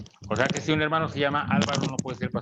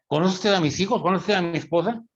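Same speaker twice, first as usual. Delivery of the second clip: imitated preacher's pointed, higher-pitched questioning; challenging questions; 5 semitones higher than usual. Preacher questioning the brother who invited him, mock interrogation. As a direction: press each question as a retold challenge. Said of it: "Dice Paul Washer".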